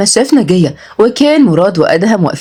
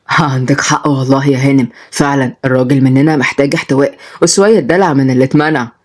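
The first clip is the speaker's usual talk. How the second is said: low-voiced old charmer, agreeing eagerly; lightly voiced smitten old man; flirting grandfather; 5 semitones lower than usual. (جدّ بيعاكس)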